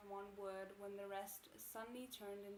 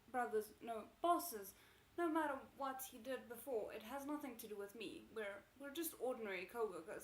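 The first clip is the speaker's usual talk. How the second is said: loud, desperate begging; panicked pleading; 7 dB louder than usual. Acted. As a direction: plead for your life. Terrified captive pleads.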